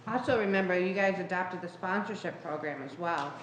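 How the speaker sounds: talking with a mouth full of cookie; chewing while talking. Real, not acted. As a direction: speak through a bite of cookie. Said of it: "excuse me, I'm eating a cookie".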